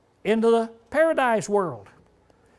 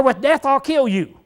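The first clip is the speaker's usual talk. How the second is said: "With death I'll kill you" raised in pitch; Hebrew-style emphasis; 5 semitones higher, 4 dB louder than usual. Shown as a demonstration. Preacher rephrasing the doubled Hebrew threat, emphatic. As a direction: lift the voice on "death", holding it high. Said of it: "It's emphasis".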